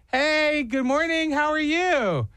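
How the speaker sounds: high, bright shop greeting; cheery greeting. Retold or imitated. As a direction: greet the customer sweetly. Greeting customer in sing-song voice.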